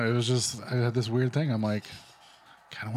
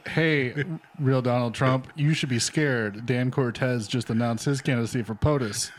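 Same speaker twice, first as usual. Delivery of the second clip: reading a tweet; 3 semitones higher, slower than usual. Retold or imitated. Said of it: "That said".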